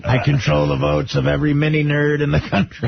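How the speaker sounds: a hint of a gloating villain; lightly voiced evil mastermind boast; supervillain voice. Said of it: "you sound like a supervillain".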